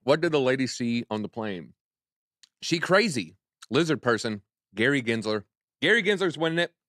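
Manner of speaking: talking around ice cubes; ice in mouth. Real, not acted. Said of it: "Sorry, I'm sucking on ice here".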